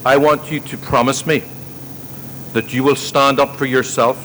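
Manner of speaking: a hint of Liam Neeson in Taken, threatening his son; mock Liam Neeson accent. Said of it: "in her Liam Neeson in Taken accent".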